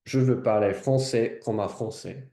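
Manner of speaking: lightly put-on French accent. Shown as a demonstration. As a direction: say it like a French person. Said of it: "speak French like a French person".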